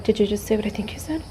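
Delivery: eager, excited dog voice; voicing the dog. Voicing the dog who heard food, eager. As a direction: play the dog hearing food. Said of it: "He's like".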